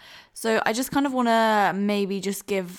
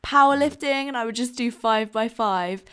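laughing; 3 semitones higher, 5 dB louder than usual. Real, not acted. Laughing at own past habits.

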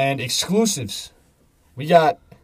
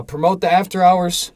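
hype promo; 6 semitones higher, 6 dB louder than usual. Real, not acted. Hyping the after hours show.

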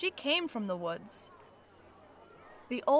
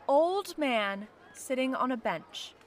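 plain reading voice

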